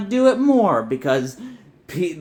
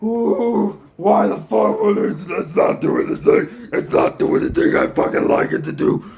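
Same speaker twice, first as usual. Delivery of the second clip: whiny fan parody. Retold or imitated. Mocking online fans who whine about a show, whiny parody voice. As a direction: sneer it like an online complainer. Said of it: "being like".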